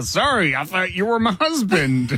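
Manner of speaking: mock apology. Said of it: "Do you also say".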